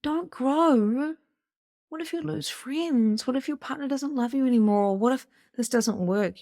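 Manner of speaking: high-pitched nagging shoulder demon; little demon. Acted. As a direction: needle them with doubts like a tiny demon. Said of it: "It's like the little demon on your s-, shoulder saying".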